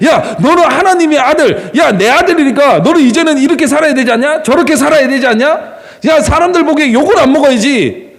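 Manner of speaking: 높은 톤으로 다그치는 잔소리를 재연; 아들을 타이르며 몰아붙이듯이; 잔소리 흉내. Retold or imitated. 잔소리하는 아버지 말투를 가정해 재연. (높은 음으로 훈계하는 척)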